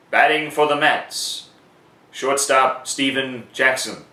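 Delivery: shorter stadium call with Steven Jackson said slowly; PA announcer call. Shown as a demonstration. Announcer showing a later at-bat, in a short stadium call. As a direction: keep it brief but announced. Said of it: "it would sound something like this".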